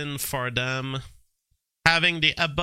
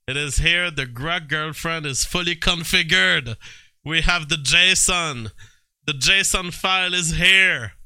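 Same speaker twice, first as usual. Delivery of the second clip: building to a louder, higher announcement; alarmed proclamation; 4 semitones higher, 5 dB louder than usual. Real, not acted. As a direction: proclaim it emphatically, rising in force. Alarmed announcement that it has arrived.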